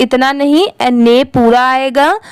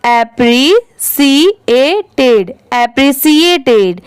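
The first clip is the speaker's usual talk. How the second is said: slow modelled word; much slower than usual. Shown as a demonstration. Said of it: "इसे speed में पढ़ेंगे".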